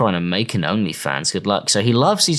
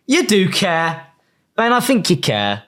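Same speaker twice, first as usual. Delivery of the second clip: teasing; 7 semitones higher than usual. Real, not acted. Teasing Ben.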